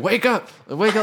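put-on screaming voice. Retelling how the stepdad woke them: imitating stepdad screaming. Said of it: "he started screaming at us".

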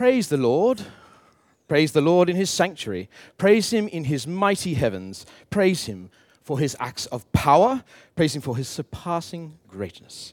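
reading aloud in an English accent. Reading Psalm 150 aloud as an example, in an English accent. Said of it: "I should read it in an English accent".

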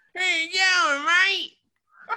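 very high, exaggerated, over-the-top put-on Australian accent. Planning an 80s outfit with friends and joking how they'll talk: over-the-top Australian accent. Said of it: "like over the top Australian".

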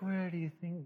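soft, gentle, mild voice. Retelling a question a man asked her, imitating a gentle voice. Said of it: "He's like all this gentle".

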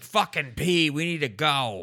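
put-on exasperated, impatient, high-pitched old man yelling. Retelling how grandfather yelled through the bathroom: imitating grandfather yelling. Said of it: "yelling at me in the bathroom".

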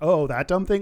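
ordinary delivery

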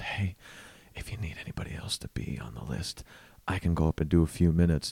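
close, hushed whisper. Retelling a guy leaning down offering to go up: imitating a whisper. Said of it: "he whispers in my face".

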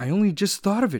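high-pitched, overwrought, hysterical outburst. A woman speaks to him after crying and laughing together: hysterical. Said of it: "she said hysterically".

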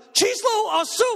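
play-acted exasperated, angry, very high-pitched shout. Retelling arguing over a number in czech with a woman, retelling own angry screaming. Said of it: "I'm screaming at people".

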